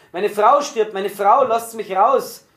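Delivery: high, anguished cry, drawn out at the end; desperate roar. A narrator's reading. Prisoner tears at the door for his dying wife, roaring desperately. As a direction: cry out frantically to be let out. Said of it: "brüllte er da auf einmal furchtbar auf".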